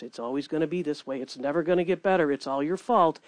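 low, soft, fast taunting; enemy taunting in your ear, low and soft. Retold or imitated. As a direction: whisper doubts like the enemy.

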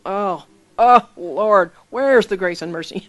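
hammed-up cry of dismay to heaven; mock dismayed wail. Retelling own protest to the Lord at harsh warning, mock wail.

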